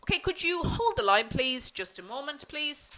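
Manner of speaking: cheerful and polite, lifted a little at the start; polite phone voice. Shown as a demonstration. Receptionist asks a caller to hold, politely. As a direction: sound happy and courteous to the caller. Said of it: "sound enthusiastic, sound happy, sound polite".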